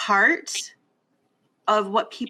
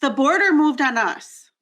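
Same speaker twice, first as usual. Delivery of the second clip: indignant emphasis; 5 semitones higher, 4 dB louder than usual. Real, not acted. Emphatic point about the border.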